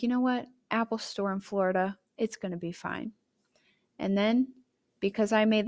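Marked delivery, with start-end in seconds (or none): 0.0-3.1 calm resignation. Retold or imitated. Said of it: "But then I was like".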